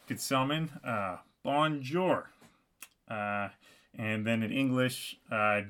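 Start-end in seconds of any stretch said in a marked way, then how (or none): 1.4-2.3 careful French greeting, slightly raised pitch; best attempted French. Narrator greeting a stranger at the mailbox, best attempted French. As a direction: try your best French accent. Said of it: "the best French possible that I could".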